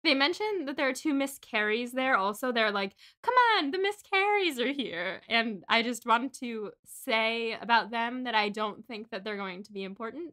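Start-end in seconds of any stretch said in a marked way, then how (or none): 3.2-5.2 high, emphatic quoted plea; mock exclamation. Characters urging someone to come along, mock exclamation. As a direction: exclaim it, pitch leaping up at the start.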